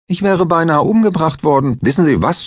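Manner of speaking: high, loud indignant outburst; outraged. A narrator's reading. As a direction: blurt it out, still shaken and furious. Klinger outraged at near-murder.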